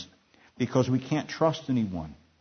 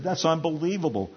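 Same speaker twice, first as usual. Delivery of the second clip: higher-pitched disbelief; incredulous; 6 semitones higher than usual. A narrator's reading. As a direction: marvel in disbelief, without laughing. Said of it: "laughed incredulously".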